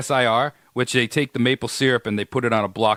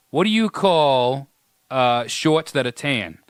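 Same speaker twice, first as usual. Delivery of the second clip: southern drawl; slower than usual. Retold or imitated. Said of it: "my buddy from down south".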